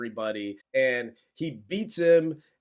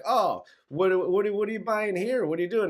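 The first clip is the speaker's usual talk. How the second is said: higher mock redneck challenge; menacing local; 5 semitones higher than usual. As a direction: play the bully probing a stranger. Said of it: "he's like".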